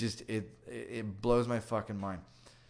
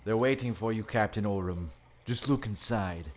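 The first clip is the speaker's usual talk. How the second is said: sinister invitation; 3 semitones lower than usual. Pretend. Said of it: "here's how that scene should have played out".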